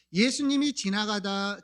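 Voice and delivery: ordinary talk, nothing marked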